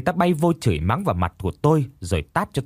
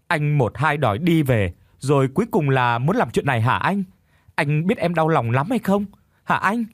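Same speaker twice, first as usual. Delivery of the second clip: hurt and sulky, pitch rising higher; heartbroken; 5 semitones higher than usual. Acted. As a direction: plead through hurt and reproach. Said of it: "giọng nói thì giận dỗi".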